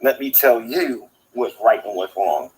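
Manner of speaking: slow, drawn-out mock imitation; Dragnut. Looking down at his little people, slow mocking imitation. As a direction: mimic a self-important ruler, word by word. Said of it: "That's a terrible imitation of Dragnut".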